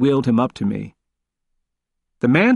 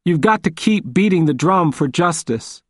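a raised, higher urging voice, rasping; hoarse; 5 semitones higher than usual. Acted. Old man leans forward to urge the lawyer, hoarse. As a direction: rasp out the urging. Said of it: "said hoarsely".

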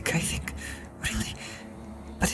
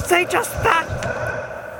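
possessed voice; 10 semitones higher, 6 dB louder, much slower than usual. Acted. Pippin possessed, dragged out.

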